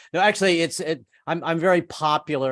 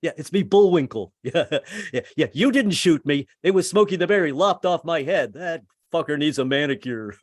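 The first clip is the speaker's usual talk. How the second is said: talking moose head; 3 semitones higher than usual. Retold or imitated. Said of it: "animals ... could talk".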